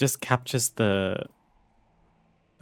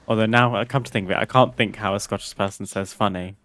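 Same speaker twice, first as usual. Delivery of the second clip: usual speaking voice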